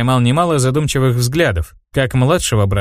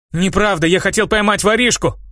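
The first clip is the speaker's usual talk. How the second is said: higher, indignant exclamation; exclaiming; 7 semitones higher than usual. A narrator's reading. Misha protests to his brother, mildly exclaiming. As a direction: protest it eagerly, pitched up. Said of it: "воскликнул Миша".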